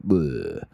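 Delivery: blurted tongue-out "bleh"; low, garbled nonsense noise; mock vampire bleh. His first response after getting a yes for a date, garbled bleh. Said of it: "That's the sound I say".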